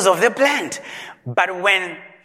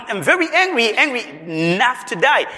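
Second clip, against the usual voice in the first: higher, heated I'm very angry; higher, upset I'm very angry; upset Jonah; 4 semitones higher, faster than usual. Acted. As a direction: push it up high, sulking and heated. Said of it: "He was very much upset".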